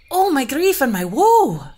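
loud, high, slow wail of pain; the queen wailing as the scarf squeezes her, loud; queen crying out. Acted. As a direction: cry out in agony, drawn out. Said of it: "cried the queen".

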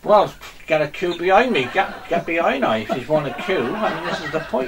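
broad Somerset farmhand voice, kept up all through; Somerset accent. Acted. Farmer showing off his dog to the camera, in a broad Somerset accent. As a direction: play a rustic Somerset yokel who's chatting away. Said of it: "See if I got the accent again".

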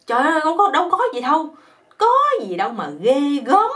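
dismissive. Retold or imitated. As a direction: brush off the fuss, it's nothing. Girlfriend brushing it off.

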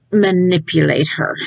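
ordinary talk, nothing marked

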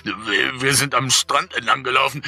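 high, stammering, rising toward tears; frantic old man. A narrator's reading. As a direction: stumble through it in panic. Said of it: "brabbelte er hektisch".

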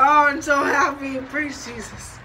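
overdone happy relief; dramatic relief. Real, not acted. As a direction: ham up the relief. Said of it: "Maybe a little dramatic".

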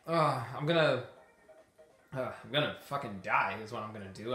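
breathless, panting between words; out of breath. Real, not acted. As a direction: talk while winded from the fight. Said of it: "I'm so out of breath right now".

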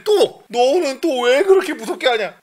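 high, loud mock motherly reproach; scolding mother. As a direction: nag loudly like a protesting mother. Mother scolding again, acted out.

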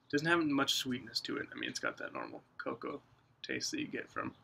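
talking around pipe stem; pipe in mouth. Real, not acted. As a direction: lips clamped on pipe. Seen 3: Pipe out at start; stem between lips from 1.7s onward.

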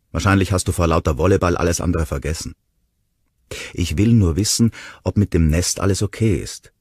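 angry accusation. Acted. Ronnie scolding Will at the counter, angry. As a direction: throw the blame at him.

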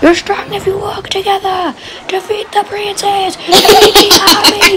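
high whispered troll, then loud. Acted. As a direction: hiss it like a little troll. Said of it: "can you do the troll?".

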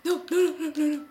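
loud, high panicked "no, no, no"; frantic cry of no; panicked shouting. Real, not acted. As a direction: yell in alarm as the cow runs. Cow escaping, panicked calling.

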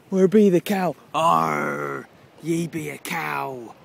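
mock pirate hailing a cow; hammed-up pirate greeting for a cow. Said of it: "Did you know that it's Talk Like a Pirate Day, cow?".

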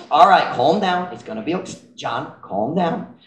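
hushed calm-down tone; calming someone down. Retold or imitated. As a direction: settle an upset friend gently. Soothing angry John.

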